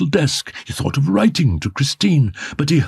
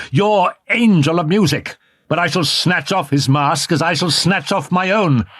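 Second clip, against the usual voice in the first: raised, higher angry voice, building; angry jealous outburst; 5 semitones higher than usual. A narrator's reading. Jealous lover confronting her in the box, angry. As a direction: lash out in jealous rage. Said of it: "he repeated angrily".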